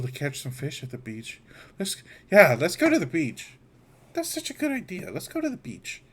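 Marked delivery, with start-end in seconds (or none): 1.8-6.0 high-pitched, excited character voice; eager kid character. Acted. Character talks companions into a beach trip, eager high voice.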